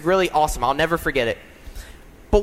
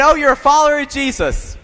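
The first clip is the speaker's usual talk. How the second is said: higher, louder Southern-style correction; Southern redo; 7 semitones higher, 5 dB louder than usual. Retold or imitated. Older gentleman down south to the new minister, louder Southern redo. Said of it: "They don't speak like that down south".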